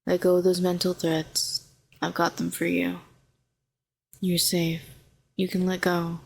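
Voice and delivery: calm, even, gentle coaxing; soothing reassurance. Acted. Calming a frightened hero in the tank, soothing. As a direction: talk them down steadily, with space between phrases.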